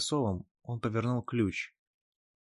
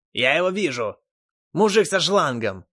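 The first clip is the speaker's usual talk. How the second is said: loud, higher croaking cry; 5 semitones higher, 5 dB louder than usual. Acted. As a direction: caw it out like a crow. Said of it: "прокаркал Ненависть".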